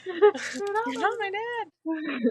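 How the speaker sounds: high, loud, drawn-out joke wail; stretched-out, high-pitched mock defiance; mock tantrum. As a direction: ham up a bratty protest. Joking mock tantrum amid laughter.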